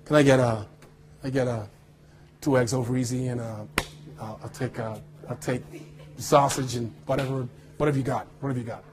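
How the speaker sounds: put-on low, soft American accent; casual American accent, lightly put on. Actor ordering breakfast in his American voice, low and offhand American accent. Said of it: "speak in my American voice".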